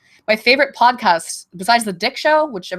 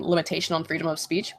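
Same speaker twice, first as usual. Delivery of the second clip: whisper; 2 semitones lower, 8 dB quieter than usual. Real, not acted. Aside about free speech on stream.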